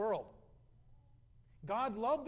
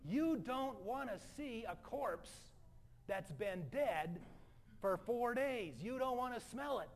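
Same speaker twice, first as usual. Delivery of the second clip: very slow, drawn-out, higher-pitched warning; emphatic warning; 4 semitones higher, slower than usual. Real, not acted. Preacher warning about a four-day corpse, slowly emphatic. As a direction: stretch each phrase out for effect.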